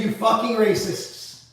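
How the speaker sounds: slow, hammed-up indignation; mock outrage. Joking streamer telling the Klan off, slow mock outrage. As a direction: drag out the insult in mock fury. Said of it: "I said".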